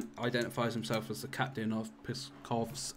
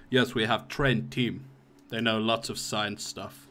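put-on Russian accent; 3 dB louder than usual. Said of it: "he's like".

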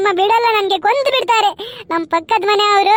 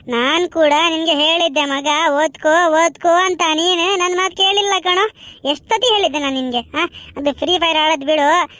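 lightly voiced gloating classmate; scolding friend; 2 semitones lower than usual. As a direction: rub it in with mock sympathy. Friend scolding the failed boy.

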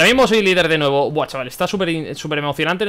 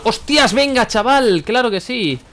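loud, high-pitched exclaiming; exasperated outburst; 6 semitones higher, 4 dB louder, slower than usual. Real, not acted. Player reacts to the game with "venga, chaval", exasperated shout.

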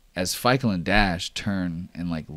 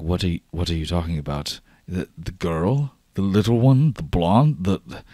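stammering, rising questions; baffled disbelief; 4 dB louder than usual. Acted. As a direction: stumble over it in growing disbelief. Acted Delco baffled by the accusation.

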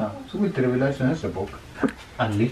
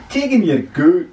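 put-on wise old sage; 8 semitones higher, 9 dB louder than usual.

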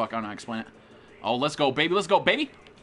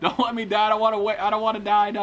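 high, loud, hammed-up begging; mock dying plea; 6 semitones higher, 4 dB louder, faster than usual. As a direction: play up dying for laughs. Melodramatic begging as character dies.

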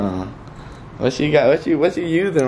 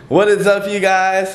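excited greeting; 7 semitones higher, 4 dB louder than usual. Real, not acted. Energetic vlog comeback greeting.

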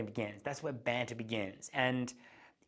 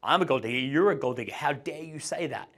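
louder mock-indignant girl's retort; playful comeback; 3 semitones higher, 5 dB louder than usual. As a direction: fire back at him in mock outrage. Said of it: "she's gonna say something like".

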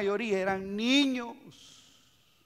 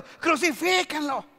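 slow, raised-pitch mock cry; mock crowd shout; 5 semitones higher, slower than usual. Crowd that turned on Jesus, imitated shouting. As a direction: imitate a crowd demanding it, drawn out. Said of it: "Después estaban gritando".

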